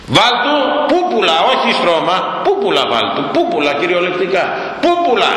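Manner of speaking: mock the feather bed with amusement; laughing mockery. Preacher to congregation, laughing at the idea. Preacher mocking soft bedding.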